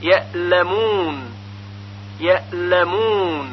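یعلمون with hamza, ye'llamoon, held ل; slow, soft release into the l; correct eased hamza. Shown as a demonstration. Teacher giving the example, hamza flowing into lam in یعلمون. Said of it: "یعلمون با همزه".

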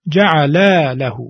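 جعل له split apart with the vowel of له held long; stretched long vowel. Shown as a demonstration. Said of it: "با همین مقدار کشش".

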